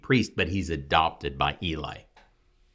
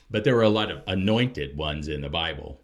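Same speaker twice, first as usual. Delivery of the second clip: normal talking voice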